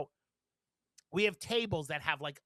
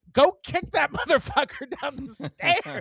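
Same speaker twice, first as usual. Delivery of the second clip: higher, louder, laugh breaking in; mock-furious urging, voice raised; heated egging-on; 7 semitones higher, 5 dB louder than usual. Egging the manager on against a rude customer, mock-furious.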